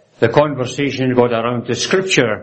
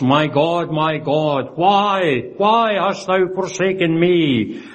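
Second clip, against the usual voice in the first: raised, drawn-out cry of forsakenness; orphan cry; 4 semitones higher, slower than usual. Retold or imitated. Preacher quoting Jesus's cry from the cross, anguished but restrained. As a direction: solemnly voice a lonely cry, pitch climbing. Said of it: "that terrible orphan cry coming from the cross".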